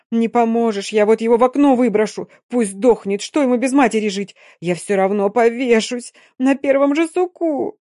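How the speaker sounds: hysterical threat. Acted.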